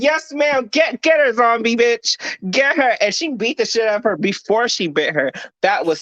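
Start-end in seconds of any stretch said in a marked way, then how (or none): 0.0-3.0 cheering her on. Retold or imitated. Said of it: "I said".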